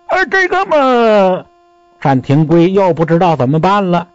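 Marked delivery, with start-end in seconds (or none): 0.1-1.4 slow, drawn-out hem and haw in an odd voice; hesitant stalling. Acted. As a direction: stall for time, not knowing what to say. 儿子犹豫答不上来. (吞吞吐吐，慢悠悠地犹豫)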